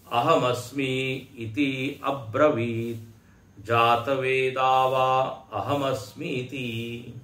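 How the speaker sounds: slow, measured scripture recital; steady, deliberate chanting of a sacred text; Sanskrit mantra recitation. Acted. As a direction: recite the verse slowly, drawing out the syllables.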